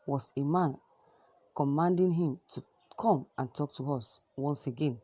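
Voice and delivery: steady, measured newsreader delivery; news read. Acted. Newsreader reporting Adesina's remarks to viewers, steady news read. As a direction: report it like a news bulletin anchor.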